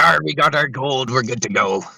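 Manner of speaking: a hint of salty pirate accent; put-on sailor accent. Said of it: "That accent will go in a minute".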